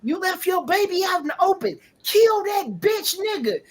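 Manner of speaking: retold order to kill. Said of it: "she was like".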